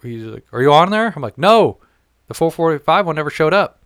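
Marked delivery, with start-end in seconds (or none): 0.5-1.1 louder, higher acted phone question; raised-pitch, pressing mock query; retold urgent question. Retold phone call from Bill. 1.4-3.8 high, loud indignant retort; raised voice, emphatic retold protest; acted exasperation. Retold exasperated answer on phone.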